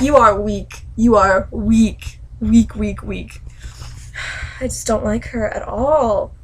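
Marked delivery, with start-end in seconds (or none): 0.0-3.4 WEAK hit hard and repeated; scornful retort. Acted. Reader scolding Sansa for being weak, emphatic scorn. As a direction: pound each "weak" with contempt.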